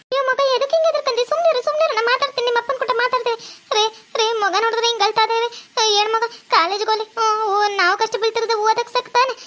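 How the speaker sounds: high anxious mother hushing and pleading; fussing village mother. Acted. Mother consoling, then daughter pleading.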